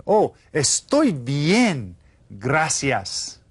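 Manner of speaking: very slow, clear Estoy bien, gracias; slow model answer. Shown as a demonstration. Teacher modelling the answer slowly for repetition. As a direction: spell out each word for the class.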